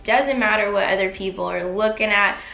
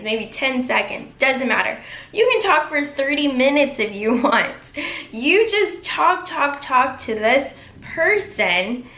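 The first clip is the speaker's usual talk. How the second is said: normal talking voice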